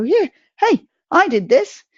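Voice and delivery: high, loud proud cheer. Retold or imitated. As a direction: crow it out, chest puffed. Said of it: "proudly put your hand on your heart and go".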